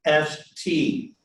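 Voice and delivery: S T sounded as two syllables of one word; joined syllables. Shown as a demonstration. Teacher models the joined syllables, careful demonstration of S T. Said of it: "So together".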